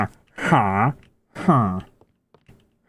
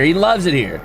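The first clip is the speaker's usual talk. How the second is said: laughing; 2 semitones higher than usual. Real, not acted. Repeats through laughter.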